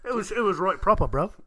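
put-on British slang delivery; mock British accent. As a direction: play it as a casual Brit. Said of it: "like, I was British".

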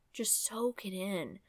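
"Just soak it in." whispered softly and slowly; whispered repeat. Shown as a demonstration. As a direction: hush it, drawn out, to the listener.

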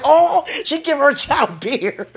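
slow, high, shocked gossip; drawn-out disapproving bystander; mock scandalized bystander. Bus passenger judging the mom, slow and shocked. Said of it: "It was like".

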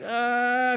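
drawn-out "uhh" of discomfort; uneasy groan. Acted. Preacher acting out his reaction to a discordant sound, uneasy groan. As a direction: groan as if a jarring sound hits. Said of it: "that discordant sound hits, and it's like".

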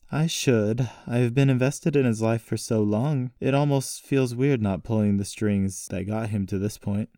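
a hint of an involved uncle; invested uncle. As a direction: answer the niece as her uncle. Voices Uncle Wentz.

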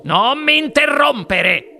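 high, loud, slow rebuke; Wonka seccato. A narrator's reading. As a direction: cut them off loudly, stretching it out. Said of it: "disse il signor Wonka". (rimprovero acuto, forte e scandito)

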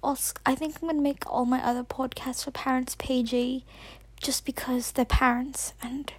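an American girl holding a mock British accent; put-on British accent. Kid podcaster dedicating her show to Oscar, British accent. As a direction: keep up a playful fake British accent all the way. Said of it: "speak in a British accent 'cause he's never heard my real voice".

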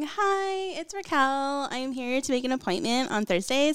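polite phone-call voice; customer service voice. Shown as a demonstration. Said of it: "mine's like".

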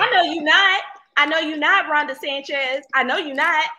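loud, high teasing rebuke; mock disowning. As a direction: play-act denying them. Teasing over pronunciation.

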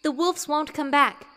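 put-on comforting young girl's voice; reassuring. A narrator's reading. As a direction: promise there is nothing to fear. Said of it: "Saria assured her".

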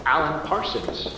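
calm automated greeting from the ceiling; disembodied voice. Acted. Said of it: "a voice from nowhere says".

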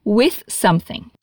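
"With something" slow and careful, TH clear; slow, careful teaching take; slow model phrase. Shown as a demonstration. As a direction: lay out "With something" slowly. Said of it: "você consegue".

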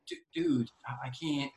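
high, halting words through suppressed laughs; stifling laughter. Retold or imitated. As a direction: try to talk while holding in a laugh. Dad struggling not to laugh.

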